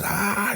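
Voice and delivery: high-pitched mock scream, held back in volume; mock yell. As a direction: imitate a man yelling in pain. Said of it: "George is yelling".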